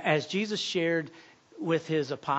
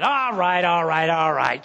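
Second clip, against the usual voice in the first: flustered giving in; 7 dB louder, slower than usual. Acted. Cook gives in as everyone leaves.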